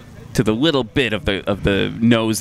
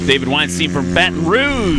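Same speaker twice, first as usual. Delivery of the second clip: announcer's introduction; 5 semitones higher than usual. Real, not acted. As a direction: announce the pilot like a ring announcer. Announcer introduces the next pilot.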